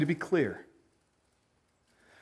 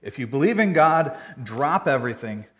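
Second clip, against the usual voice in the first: mock chain post; 5 dB louder than usual. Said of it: "I saw this on Facebook".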